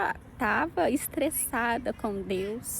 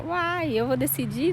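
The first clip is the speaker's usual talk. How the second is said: higher-pitched, taken-aback daughter; mock incredulous; 3 semitones higher, 4 dB louder than usual. Daughter balking at being asked to decide, mock incredulous. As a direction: imitate a teen's incredulous protest.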